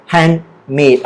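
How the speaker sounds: "handmade" in two beats, MADE stressed. Shown as a demonstration. Teacher recapping the word for students, stress on MADE in handmade. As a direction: lean on MADE in "handmade", falling. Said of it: "The stress is on the word made".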